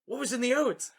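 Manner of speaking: high-pitched mock sheriff voice. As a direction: put on a comically high sheriff. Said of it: "the sheriff's like".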